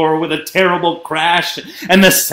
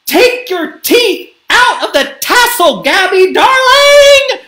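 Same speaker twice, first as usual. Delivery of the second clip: high scream building louder to the end; 8 dB louder than usual. A narrator's reading. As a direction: scream orders at your child. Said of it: "screamed Gabby's mom".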